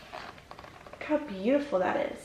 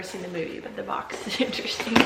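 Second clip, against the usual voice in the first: whispered laugh; 3 semitones lower, 4 dB quieter, faster than usual. Real, not acted. Amused whisper about odd box.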